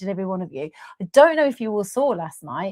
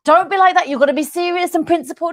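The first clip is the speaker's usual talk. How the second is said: mock stern lecture, higher and louder; mock lecturing; 7 semitones higher, 6 dB louder, faster than usual. Mocking stuffy critics, a loud hammed-up scold. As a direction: ham up a prissy scold, quick. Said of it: "Shouting again".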